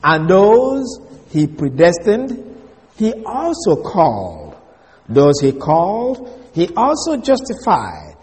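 slow, measured reading with weight on "those" and "also"; quoting scripture. Acted. Teacher quoting Paul's verse to the class, solemn scripture reading. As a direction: recite the verse with a rising then falling cadence. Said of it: "So when Paul says".

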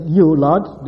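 "You" loud and held before "Lord"; a forceful, weighted "You"; stress on You. Shown as a demonstration. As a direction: hit "You" hard, then "Lord". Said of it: "the reason he makes this emphasis".

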